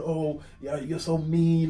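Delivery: mock crying daughter. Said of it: "You were crying and you were saying".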